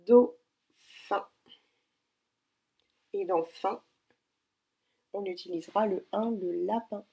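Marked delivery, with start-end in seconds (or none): 0.1-1.3 Dauphin said much louder, higher, falling; loud dictation. Shown as a demonstration. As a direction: call out the word for dictation. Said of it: "dictée". (Dauphin, dicté fort)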